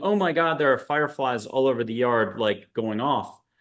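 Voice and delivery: ordinary talk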